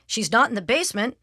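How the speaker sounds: understated dad's call; father calling. Acted. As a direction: call it over without much force. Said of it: "called Father".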